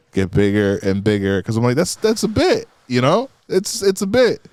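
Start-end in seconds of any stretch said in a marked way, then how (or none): 1.8-4.4 amused self. Retold or imitated. His own thought voiced.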